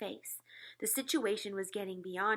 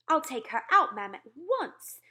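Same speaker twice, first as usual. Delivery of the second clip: maid's eager offer; 5 semitones higher, 10 dB louder than usual. A narrator's reading. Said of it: "the maid was saying".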